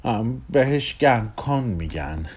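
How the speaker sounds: slow, lightly romantic delivery. Acted. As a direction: draw it out a little, suavely. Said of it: "با لحن رمانتیکی گفت".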